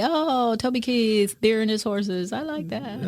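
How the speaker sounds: cheery happy-go-lucky fan; carefree and happy about a singer; jovial. Retold or imitated. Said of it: "that jovial, happy".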